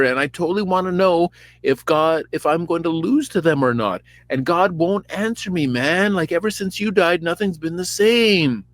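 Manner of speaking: high, loud hammed-up pleading; whiny Saul. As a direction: plead like a needy bro. Saul pleading to Samuel, voiced.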